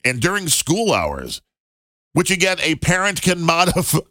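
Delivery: hiccuping through laughter; laughing with hiccups. Real, not acted. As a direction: read it while hiccuping from laughing. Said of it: "laughing so hard I'm hiccuping".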